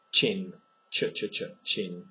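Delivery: ch repeated crisply, then chin; ch sound. Shown as a demonstration. Teacher drilling the ch sound for learners. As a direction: hit the ch at the start of chin. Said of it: "this is a ch sound".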